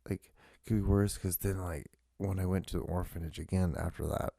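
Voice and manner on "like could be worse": pitched-up, breezy reassurance; downplaying. Telling a shocked friend it was fine, pitched-up breezy. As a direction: brush it off lightly. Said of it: "I'm like".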